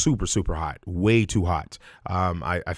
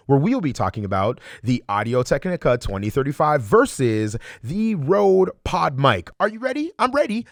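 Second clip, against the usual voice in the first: rally the audience, then shout the send-off; hyped channel intro. Shown as a demonstration. Channel intro announcer style.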